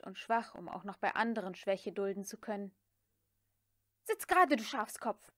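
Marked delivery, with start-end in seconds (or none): 4.0-5.3 sharp, higher, louder command; shout. A narrator's reading. Scarlett shouts at Prissy to sit up, loud and high. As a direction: snap at the cowering maid. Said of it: "schrie sie".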